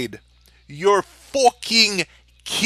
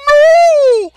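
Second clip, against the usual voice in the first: mocking squeaky voice; 6 dB louder, much slower than usual. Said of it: "and saying".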